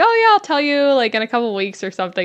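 offhand, flippant brush-off. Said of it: "I was kind of saying it sort of flippant".

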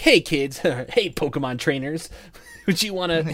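put-on very slow, drawn-out 90s kids' TV commercial voice. Imagining how an old Pokemon ad would have sounded: 90s TV commercial voice. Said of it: "that's exactly how it would have been".

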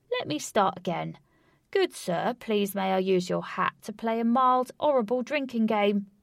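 loud, playful Cockney party-host voice. Narrator voicing a man addressing bureaucrats in a story: loud cockney accent. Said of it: "talking loud Cockney and giving people playful nicknames. / He mingled around large crowds, talking loud Cockney and giving people playful nicknames. / said someone, / talking loud Cockney and giving p".

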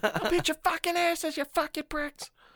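put-on very high-pitched child voice. Joining in on the bit: imitating a kid cussing. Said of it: "a child cussing".

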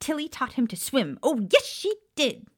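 insistent high swooping voice. Reading a story, voicing the house elf Tilly at the family table; insistent Tilly house-elf voice. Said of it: "Someone appeared, clearing away plates and levitating new dishes to the table, / The elf's young master will go to Hogwarts. Young master is the smartest wizard, brave and valiant. They let young master".

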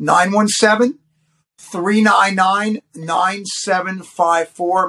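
carefully spaced, slow, deliberate reading of digits. Giving out a phone number a second time for listeners, saying it slowly. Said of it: "Let me say it one more time slowly".

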